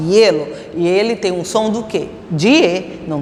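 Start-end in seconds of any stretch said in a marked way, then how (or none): 0.1-0.5 "hielo" with the ie glided together; one-syllable glide. Shown as a demonstration. Teacher repeating the right form for students, "hielo" joined as ye-lo. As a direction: say "hielo" as ye-lo, no separate I. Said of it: "É uma sílaba só".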